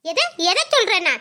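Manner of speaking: indignant mother-in-law; angry echo. Acted. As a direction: throw the question back at the daughter-in-law. Mother-in-law throws question back.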